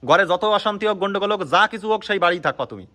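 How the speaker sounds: heated, insistent ultimatum; stern warning. Real, not acted. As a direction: lay down the law angrily. Laying down law in quarrel.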